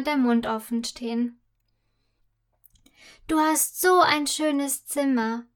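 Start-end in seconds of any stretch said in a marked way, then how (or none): 3.3-5.4 a touch of wide-eyed delight; girl marveling at the princess's room; enthusiastic. Acted. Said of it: "sagt sie begeistert".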